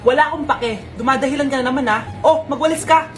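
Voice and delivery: scolding mother. Acted. Mother brushing off her son's sickness, loud scold. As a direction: dismiss his excuse sharply.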